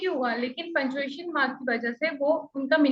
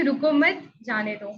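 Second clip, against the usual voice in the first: "रुको मत" as one phrase, break, then "जाने दो"; group मत with रुको, then drop lower on जाने दो; pause after मत; 4 semitones lower, slower than usual. Shown as a demonstration. Trainee shows how a comma changes meaning, pause after मत. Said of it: "punctuation mark, "रुको मत" के आगे".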